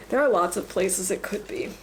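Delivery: usual speaking voice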